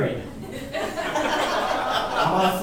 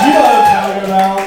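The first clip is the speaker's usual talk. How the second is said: faster shout; 6 dB louder, faster than usual. Real, not acted. Crowd call again.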